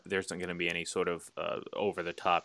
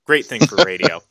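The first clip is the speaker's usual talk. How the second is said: hiccuping between words; talking through the hiccups; 8 semitones higher, 15 dB louder than usual. Real, not acted. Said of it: "now I'm starting to get the hiccups".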